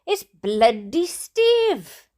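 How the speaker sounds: high, loud shocked shout. Acted. Dad shouting at spotting Steve by the wreck. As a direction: yell his name in disbelief. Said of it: "shouted my dad".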